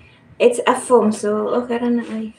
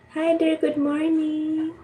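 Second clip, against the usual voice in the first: put-on baby talk; 5 semitones higher than usual. Greeting baby in high voice.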